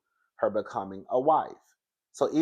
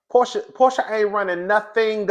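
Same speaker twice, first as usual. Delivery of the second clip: emphatic; 10 semitones higher, 7 dB louder than usual. Real, not acted. Emphatic mocking claim about Portia.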